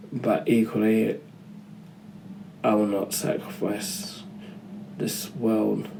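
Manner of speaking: quiet, slow, deliberate retelling of the line; earnest heartfelt line. Retold or imitated. Vlogger quoting Sue Storm's big movie line, softly earnest. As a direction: weigh each word like a mother torn between two duties. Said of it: "it was delivered great".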